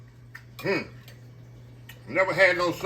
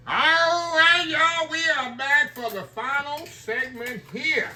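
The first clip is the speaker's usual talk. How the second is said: excited return; 11 semitones higher, slower than usual. Real, not acted. Host returns for final segment.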